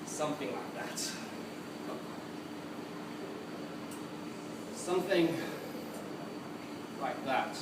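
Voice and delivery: low, soft, halting memory; quiet, lost musing; haunted recollection. Acted. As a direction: sink low and soft, with long pauses. Madman recalling an uncertain past.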